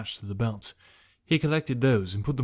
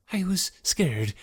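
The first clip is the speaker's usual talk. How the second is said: whisper; 8 semitones higher, slower than usual. A narrator's reading. Jekrom confesses fear.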